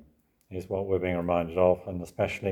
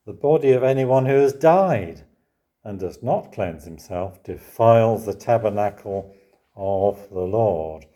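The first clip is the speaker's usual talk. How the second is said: scripture reading; 4 dB louder than usual. Real, not acted. Preacher reading verse thirteen to congregation, solemn. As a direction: read it with weight. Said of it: "where we read".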